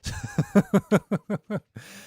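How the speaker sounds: high, rapid-fire laugh; real laugh. Real, not acted. Laughing at his own bad accent, high giggle.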